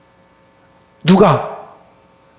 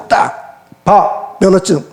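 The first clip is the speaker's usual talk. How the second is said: smug boast; slower than usual. Retold or imitated. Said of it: "딱 이럴 텐데".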